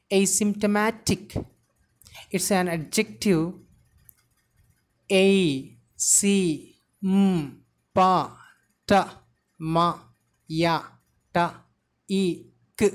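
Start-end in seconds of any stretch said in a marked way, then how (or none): 5.1-12.9 isolated sounds "A, C, M, pa" with gaps; sound-by-sound pronunciation. Shown as a demonstration. Teacher sounding out asymptomatic for learners, one sound at a time. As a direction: say each sound of asymptomatic separately. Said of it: "The pronunciation would be like this".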